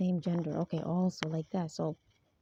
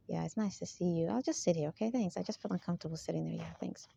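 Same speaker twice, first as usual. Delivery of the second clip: put-on politeness, trailing off softer; mock manipulative politeness; 3 dB quieter than usual. Speaker imitates someone excusing where they sit, mock manipulative. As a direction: lightly mimic overly meek small talk. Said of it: "talks like that. ... so irritating. ... Very manipulative".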